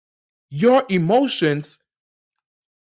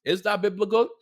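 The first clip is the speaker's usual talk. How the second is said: skeptical listener; 4 semitones higher than usual. Retold or imitated. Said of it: "y'all may be like".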